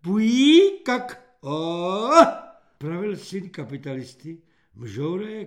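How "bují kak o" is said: high, halting nonsense syllables; dim-witted gibberish. A narrator's reading. Simple-minded recruit answering the corporal, hooting gibberish. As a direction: jerk out meaningless noises, pitch jumping. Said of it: "občas zahýkal zhluk samohlásek či souhlásek".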